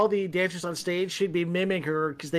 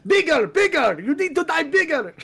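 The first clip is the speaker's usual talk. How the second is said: higher, louder coaching from off camera; yelling director; 10 semitones higher, 4 dB louder than usual. Retold or imitated. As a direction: imitate a director yelling for more. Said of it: "The director's yelling off".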